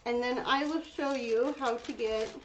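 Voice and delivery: talking around a brush in her mouth; words muffled by a brush held in the teeth; mouth full. Real, not acted. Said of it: "I have the brush in my mouth".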